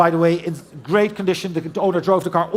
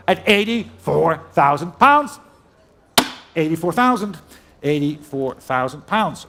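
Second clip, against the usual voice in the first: brisk auctioneer calling out bids. Real, not acted. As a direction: rattle off the bids like a saleroom auctioneer.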